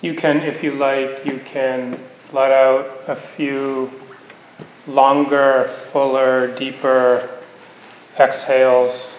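unhurried meditation guidance with long pauses; guided meditation. Acted. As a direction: gently guide them into the body, leaving space between phrases.

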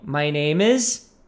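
slow "My name is." ending on a rise; "My name is." slow, rising on "is" to invite the name; model for repeating. Shown as a demonstration. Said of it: "E agora fala o seu nome". ("My name is." lento, subindo no fim)

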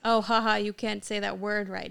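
mild mock jeer, loud on the opening. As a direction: imitate someone poking fun at a learner. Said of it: "like, jeer at you".

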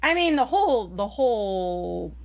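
coughing, voice catching on a lozenge; words strained around a cough drop; choking on a cough drop. Real, not acted. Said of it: "Sorry, I'm choking on a cough drop".

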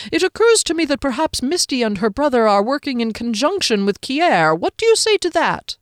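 a hint of a sly little halfling testing a theory; probing halfling.

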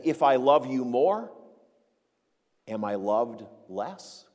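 understated hurt, slowing and softening on the question; Paul's disappointment. Acted. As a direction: ask it with a touch of letdown. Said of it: "Can you sense Paul's disappointment?".

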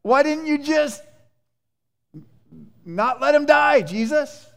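high, loud, mock-incredulous whine at Jesus; exasperated protest. A believer complaining to Jesus, high and loud mock exasperation. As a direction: throw the question at him like a frustrated believer.

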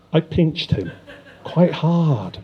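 chuckling through the words; gloating little laugh while speaking. Acted. Villain gloats over hurting boy.

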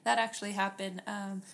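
husky, low after-hours voice; low magnetic voice. Real, not acted. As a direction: speak low and husky, like late-night radio. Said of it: "you're getting that after hours voice".

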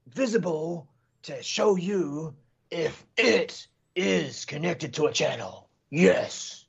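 slow, drawn-out wrestling announcer hype; WWF announcer voice. Pretend. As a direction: announce it like a wrestling ring intro. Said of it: "get into my W W F announcer voice".

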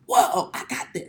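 high, slow, pleased self; imitating a cocky learner; smug confidence. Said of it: "I was, like, watching morning shows".

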